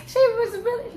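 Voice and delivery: high squeaky laughing. Real, not acted. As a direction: laugh through the words. Laughing about Kenya.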